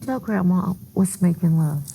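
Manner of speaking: put-on a sweet grandma asking a child. Shown as a demonstration. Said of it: "'cause that's my grandma voice".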